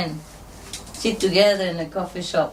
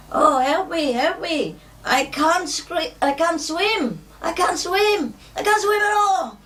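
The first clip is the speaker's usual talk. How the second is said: high panicked cries for help, climbing higher; hammed-up yell of a drunk who can't swim; mock drowning scream; 12 semitones higher, slower than usual. Drunk fallen into the water, high mock scream for help. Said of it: "And he was screaming".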